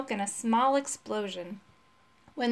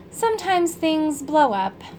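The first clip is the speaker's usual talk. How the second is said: slow, higher and louder with glee; happily; 6 semitones higher, 6 dB louder than usual. A narrator's reading. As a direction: savour it like a happy secret. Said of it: "said happily".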